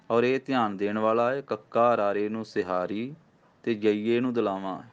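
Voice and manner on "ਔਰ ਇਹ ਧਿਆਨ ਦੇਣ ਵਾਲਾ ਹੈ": ordinary talk, nothing marked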